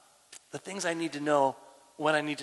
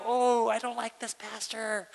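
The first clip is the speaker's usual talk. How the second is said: high, drawn-out mock grumble; mock disapproval; 6 semitones higher, slower than usual. Congregation member disliking the word submissive, mock disapproving. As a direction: imitate a put-off listener, stretching the words. Mimics offended listeners hearing submissive.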